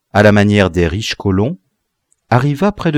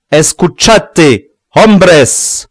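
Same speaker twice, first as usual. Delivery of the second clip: louder, higher Spanish call; cry out; 7 semitones higher, 8 dB louder, much slower than usual. A narrator's reading. Lobie repeats his call to the crowd, loud. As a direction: shout it across the crowd. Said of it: "s'écria Lobie".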